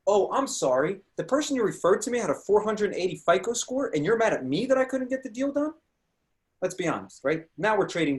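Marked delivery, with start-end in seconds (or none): 0.1-5.7 sarcastic apology. Retold or imitated. Mock apology to angry realtor.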